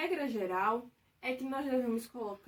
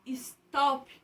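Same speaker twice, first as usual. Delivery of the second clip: "stop" with the TOP part ringing out; stress on TOP in "stop"; 4 dB louder than usual. Shown as a demonstration. Teacher asking pupils which syllable rings out, stress on TOP in "stop". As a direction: stretch "stop", landing on the final TOP. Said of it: "qual é a palavra que mais ressoa?".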